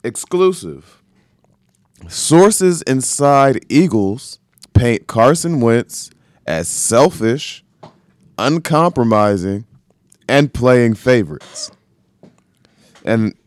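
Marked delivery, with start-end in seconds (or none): 0.0-11.7 slow, weighty read of "selfish, uncompromising, and playing favorites"; headline read out. Shown as a demonstration. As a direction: announce the headline slowly, leaning on each charge. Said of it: "I'm going to read the headline".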